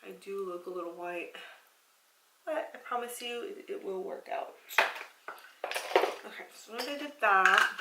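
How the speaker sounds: talking while chewing gum; words around a wad of gum. Real, not acted. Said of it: "sorry, I'm chewing gum".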